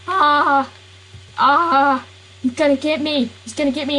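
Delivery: playful cartoon fear; scared. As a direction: cry out like the villain's right behind you. Character fears being caught.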